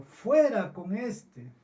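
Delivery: preacher voicing the mob's demand, mock shouted; crowd shout. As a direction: call out "Fuera" like an angry crowd, drawn out. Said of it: "gritaron a una diciendo".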